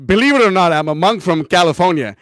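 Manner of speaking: loud, declaimed catchphrase; Vijay Prabhu. Retold or imitated. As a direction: belt out a well-worn sales line. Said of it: "What's Vijay Prabhu's line?".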